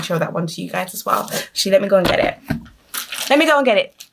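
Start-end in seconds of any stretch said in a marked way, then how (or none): 3.3-4.0 pitched higher, bouncy; sing-song repeat. Real, not acted. Repeating to viewers as she goes to fetch the book, sung-out higher. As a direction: sing it out as you head off.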